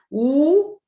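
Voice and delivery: u said high and loud; strong U. Shown as a demonstration. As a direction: punch the u as a strong vowel. (u forte e alto)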